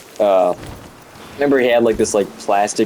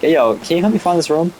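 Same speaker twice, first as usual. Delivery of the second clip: higher-pitched call for help; retold request; 8 semitones higher than usual. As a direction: imitate asking a teacher for directions. Retold calling to a teacher.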